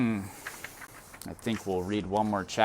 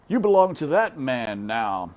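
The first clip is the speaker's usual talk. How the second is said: a hint of a stern father; 4 semitones higher, 7 dB louder than usual. Father sends her off.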